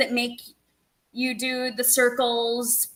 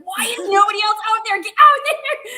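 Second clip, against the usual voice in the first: mock panic; 8 semitones higher, 7 dB louder than usual. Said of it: "He's like".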